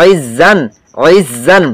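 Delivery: "ইজ" starting from a squeezed throat; throat-pressed ayn. Shown as a demonstration. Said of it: "একটু নিয়ে গলাটা চাপে". ("ইজ"-এর শুরুতে গলা চেপে আইন উচ্চারণ)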